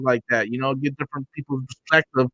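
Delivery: fuzzy, distorted mic sound; crackly broken microphone; distorted audio. Real, not acted. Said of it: "you sound a bit distorted".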